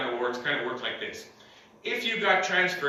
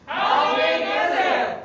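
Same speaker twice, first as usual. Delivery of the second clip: slow, much higher rising question; comedy setup question; 14 semitones higher, 7 dB louder, much slower than usual. Shown as a demonstration. Comic demonstrating the callback on stage, slow and high. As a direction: stretch it out high like a crowd prompt. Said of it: "this global pandemic is so big".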